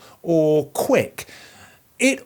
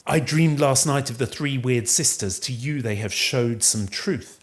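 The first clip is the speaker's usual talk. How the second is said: a hint of character, lower and softer towards the end; lightly voiced Banquo; 5 semitones lower, 4 dB quieter than usual. Banquo confiding in old friend Macbeth about the weird sisters, lightly voiced. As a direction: read the line low, lightly in role. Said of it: "Banquo admits that he's been thinking".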